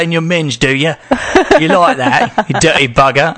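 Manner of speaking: mock British accent, playful dirty talk; lightly put-on British accent, teasing. Host tries British slang dirty talk, mock British accent. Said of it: "Weirder with an American accent, though".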